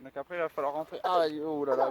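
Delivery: ordinary delivery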